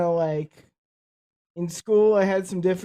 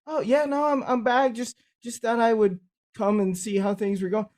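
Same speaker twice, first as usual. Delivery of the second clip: mock-casual, higher-pitched comeback; sarcastic reply; 4 semitones higher than usual. Veteran answers his doubters, sarcastic reply. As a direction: play innocent with a light sarcastic lift. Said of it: "that was my answer to their sarcasm".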